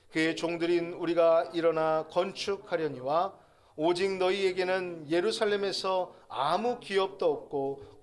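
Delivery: slow, measured congregational reading; scripture reading. Real, not acted. Preacher reads the verses together with the congregation, slow and measured. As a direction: read it out deliberately, drawing out the phrases.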